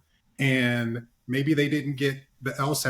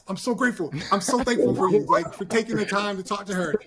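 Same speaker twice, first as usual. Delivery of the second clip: put-on higher-pitched, amateur African accent; 7 semitones higher than usual. Panelist quotes a church member's thankful dad, imitated African accent. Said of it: "is that your African accent".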